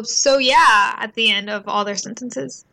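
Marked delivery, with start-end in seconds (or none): 0.0-0.9 drawn-out mock "So yeah"; imitating friend's tic. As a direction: tease him with his own "So yeah". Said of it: "I've just never heard someone go".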